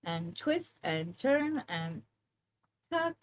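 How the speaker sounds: lightly voiced fitness coach cueing; aerobics instructor voice. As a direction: count off the moves like aerobics. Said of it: "make it sound like where I'm an aerobics instructor".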